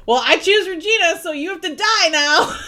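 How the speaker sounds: high, loud mock proclamation; hammed-up announcement of a cruel verdict; mock dramatic declaration. Mocking a hero's choice between two women, hammed-up declaration.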